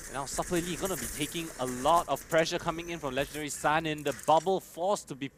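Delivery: esports caster calling the fight; live play-by-play. Real, not acted. Caster calls a gunfight for viewers, live play-by-play. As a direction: call the action, lifting pitch on the big moments.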